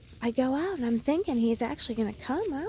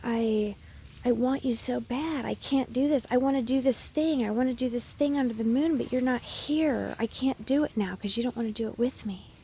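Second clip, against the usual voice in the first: hammed-up, louder tearful whine; mock-sobbing to her husband about the moon; mock crying plea; 2 semitones higher, 4 dB louder than usual. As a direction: imitate her old clingy pleading self. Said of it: "I probably would have been like".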